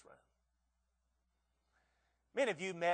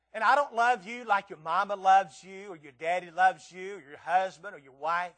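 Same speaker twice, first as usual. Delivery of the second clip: emphatic list; 8 dB louder than usual. Acted. Building preaching list.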